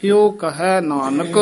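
brief stop right after ਨਾਨਕ; short halt after ਨਾਨਕ. Shown as a demonstration. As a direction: pause on ਇਉ ਕਹੈ ਨਾਨਕ before going on. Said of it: "ਇੱਥੇ ਠਮਕ ਹੈ".

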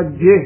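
ਜੇ short, closed by h; sihari, then haha. Shown as a demonstration. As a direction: say ਜੇ as brief "jeh", not "jehe". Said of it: "ਜੱਜੇ ਸਿਹਾਰੀ ਹੈ". (ਜੇ ਨੂੰ 'ਜਿਹ' ਵਾਂਗ)

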